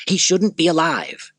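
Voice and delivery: high, loud, slow furious outburst; angry Commodus. Acted. Emperor Commodus to his sister, furious and high. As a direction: spit it out in rising rage. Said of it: "That makes me angry".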